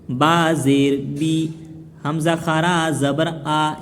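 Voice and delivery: slow, measured Quranic spelling chant; recitation drill. Shown as a demonstration. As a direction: draw out each long vowel on a level tone. (धीमे, लय में हिज्जे का सबक)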